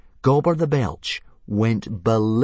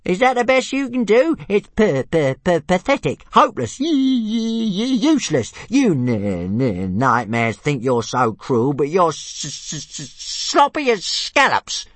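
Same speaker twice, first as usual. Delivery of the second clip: high, louder stammering taunts; jeering little dragon; 9 semitones higher, 4 dB louder than usual. A narrator's reading. Tiny dragon taunting Fireworm, high and stammering. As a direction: taunt her, tripping over the stutter. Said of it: "jeered Toothless".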